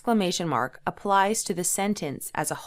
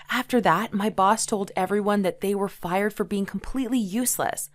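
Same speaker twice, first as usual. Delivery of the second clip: exclaiming; 3 semitones higher than usual. Shown as a demonstration. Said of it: "I'm exclaiming and showing emotion".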